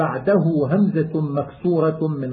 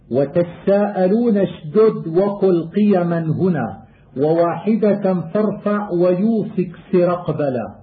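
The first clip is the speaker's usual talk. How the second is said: poem recitation. Acted. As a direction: recite the rhymed line like a student of qira'at. Chanted verse of the poem.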